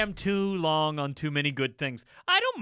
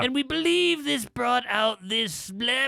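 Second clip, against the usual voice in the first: mock critic voice. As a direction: read it like a stuffy music critic. Parodying pompous music critic.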